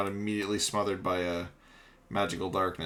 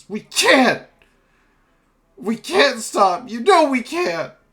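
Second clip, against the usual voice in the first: very high, very loud, defeated, desperate shout; 12 dB louder than usual. Voicing a defeated character who yells into the darkness: yelling desperately. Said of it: "yells into the darkness".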